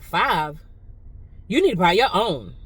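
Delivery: nasty attitude. Retold or imitated. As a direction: imitate her curt put-down. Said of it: "when she said that with attitude".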